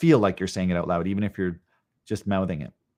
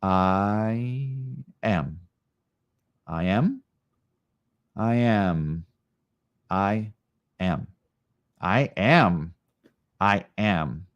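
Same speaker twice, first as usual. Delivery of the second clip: repeated affirmation, each take shaped a little differently; different ways; much slower than usual. Shown as a demonstration. Teacher models varied affirmations for the class, shifting delivery. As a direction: try out a new delivery each time. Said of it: "Say it in different ways and see what triggers".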